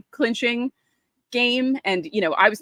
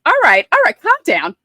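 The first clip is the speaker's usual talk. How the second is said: louder, higher mock hushing; calm down; 9 semitones higher, 8 dB louder than usual. Teen telling gloating dad to calm down, loud and high. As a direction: wave off dad's gloating loudly. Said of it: "And I'm like".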